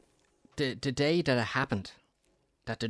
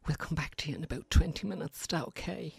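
lightly put-on nurse voice, higher and quicker; a hint of the nurse's chirpy check-in; mimicking the nurse; 5 semitones higher, 4 dB quieter than usual. Husband mimics the nurse checking on his wife, lightly put-on. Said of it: "I like to mimic people".

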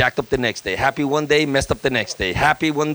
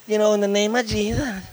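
weak rebuke; 6 semitones higher than usual. Retold or imitated. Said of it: "That, that's not gonna work".

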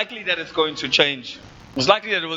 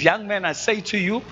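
Jesus commanding. Acted. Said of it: "So he says".

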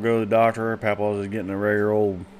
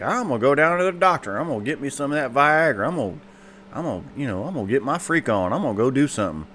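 papa voice; 5 semitones higher than usual. Acted.

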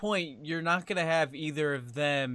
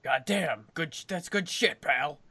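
Vince McMahon. Acted. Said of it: "I did a good Vince McMahon impression".

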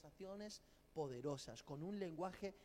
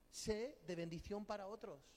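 a louder, stronger repeat of the motto; the motto pressed home louder; louder restatement; 5 dB louder than usual. Real, not acted. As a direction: say it again with more force. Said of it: "repeated louder".

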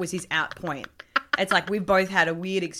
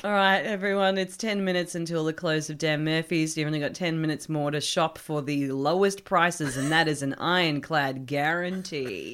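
sarcastic announcement; 4 semitones lower than usual. Retold or imitated. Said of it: "sarcastic with our announcements".

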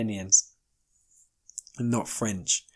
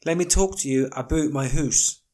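put-on Canadian accent; 2 semitones higher than usual. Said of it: "pick up that accent".

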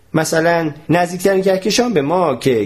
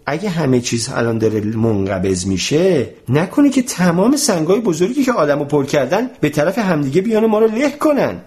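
worried; 3 semitones higher than usual. Acted. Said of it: "با نگرانی رو به استاد کرد".

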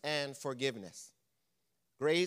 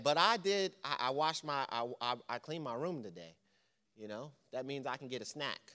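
lightly voiced child pleading, going softer; a hint of a kid bargaining for a snack; imitating a child; 2 semitones lower, 4 dB quieter than usual. Preacher voicing a child asking for a snack, softly pleading. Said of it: "How many of you have children".

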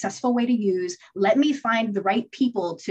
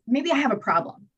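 higher, sugary mock admission; coaxing confession; 5 semitones higher than usual. To her partner, a higher manipulative admission. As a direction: play innocent to win him over. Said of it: "And I was like".

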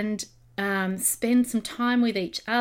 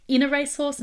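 "In a racehorse?" echoed back higher, amused at her own slip; puzzled double take; 6 semitones higher, 4 dB louder, faster than usual. Real, not acted. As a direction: catch your own blunder and question it.

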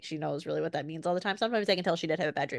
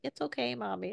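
put-on soothing child; 4 semitones higher, 6 dB quieter than usual. Child soothing mother in sleep.

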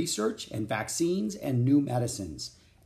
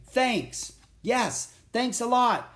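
higher, calling out thanks; shouted; 11 semitones higher, 3 dB louder, much slower than usual. A narrator's reading. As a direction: call thanks down the street. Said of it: "shouted Jack".

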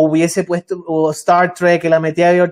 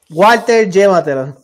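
backwards word order. Real, not acted. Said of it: "No puedes decirlo al revés".

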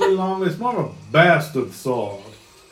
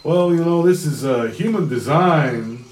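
Texan drawl. Acted. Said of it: "he says".

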